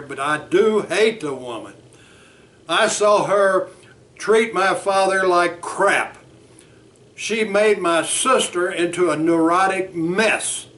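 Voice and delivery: loud, slowed complaints about his mother; heated client. Acted. Bert arguing with his therapist Frank, heated. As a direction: push back, barely cooling down.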